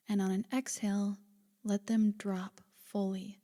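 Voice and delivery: calm, unhurried body-scan guidance; guided meditation. Acted. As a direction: gently lead a listener into relaxation, leaving space between phrases.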